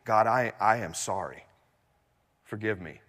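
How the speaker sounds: hushed, halting mock confession; imagined humble apology. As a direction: play a humbled man asking pardon. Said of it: "He's not surrendering".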